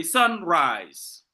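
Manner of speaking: drawn-out "sunrise", SUN and RISE both held; two equal stresses. Shown as a demonstration. Teacher giving class spondees, both syllables of "sunrise" stressed. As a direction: give both halves of "sunrise" full weight. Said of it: "the same level of pronunciation".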